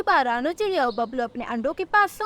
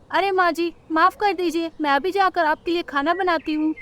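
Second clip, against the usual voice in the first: higher-pitched dutiful bird wife; apologetic daughter-in-law; 5 semitones higher than usual. Acted. Rano begs mother-in-law's pardon over food, apologetic.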